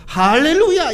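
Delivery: high, drawn-out mock cheer; mock jubilation. Preacher imagines Abraham rejoicing at God's word, mock jubilant. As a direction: exclaim it with put-on rapture.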